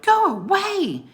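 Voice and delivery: high, loud and slow command; slow angry shout. Acted. Jack ordering the wolf away, slow loud shout. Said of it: "he shouted".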